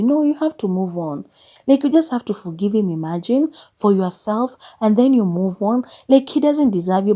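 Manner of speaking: imitating glib advice-givers, pitch lifting; mock advising. People from perfect homes telling her to move on, mock advising.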